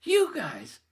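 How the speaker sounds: very high, loud drawn-out disbelief; incredulous. Retold or imitated. Asking friend and husband about the sign, incredulous squeal. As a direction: squeal it slowly, hammed-up amazement. Acts astonished question to parents.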